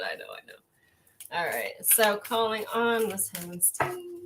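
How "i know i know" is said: low, slow, soft put-on voice saying "I know, I know"; droll deep mock "I know". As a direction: drop way down and drag "I know, I know". Repeats phrase in deep mock voice.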